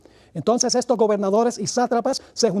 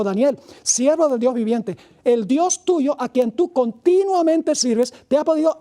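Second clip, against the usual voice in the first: slow, higher mournful call into the den; sad calling out; 3 semitones higher, slower than usual. Acted. King calls sadly down to Daniel in the lions' den, mournful slow call. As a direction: call out to Daniel with sorrow, slowly. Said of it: "llamó a voces a Daniel con voz triste".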